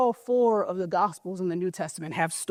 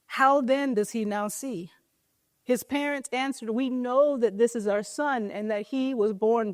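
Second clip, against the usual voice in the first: measured reading from the Gospel; scripture reading. Acted. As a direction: read the passage to the congregation. Reads scripture passage aloud.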